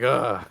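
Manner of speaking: short imitated groaning sigh; mock put-upon exhale; another sigh. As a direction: sigh out an exasperated ugh. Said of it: "he puts out another sigh".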